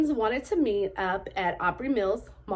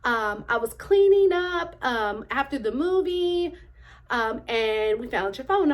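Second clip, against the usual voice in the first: imitating the finder; 3 semitones higher than usual. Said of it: "and he's like".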